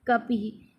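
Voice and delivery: कपिः ending in an audible "hi"; visarga demostrada. Shown as a demonstration. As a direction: sound out the final ः of कपिः as an h echoing the i. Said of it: "ह की आवाज़ देता है".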